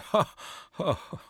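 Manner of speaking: mock caveman "ha, ha"; acted relieved laugh. Caveman sees it wasn't a tiger, mock laugh. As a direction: fake a laugh of relief in separate bursts. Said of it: "that noise of laughing".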